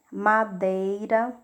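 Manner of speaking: "Madeira" said slowly with a long E; slow demo word. Shown as a demonstration. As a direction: stretch "Madeira" so the E rings. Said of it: "o som do E foi maior do que do I".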